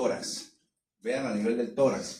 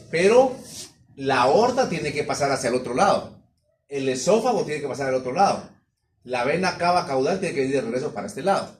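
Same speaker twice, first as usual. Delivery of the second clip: emphatic explaining; 6 dB louder than usual. Real, not acted. Teacher stresses where things pass.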